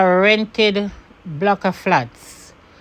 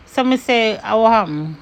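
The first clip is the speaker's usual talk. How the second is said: Jamaican patois; 2 semitones higher than usual. Retold or imitated. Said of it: "when a Jamaican gets pissed".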